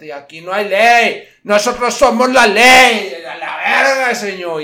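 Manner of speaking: loud high cholo boast with a laugh; hammed-up cholo swagger; cholo bravado. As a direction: boast like the carwash boss. Cholo proclaiming they are the law.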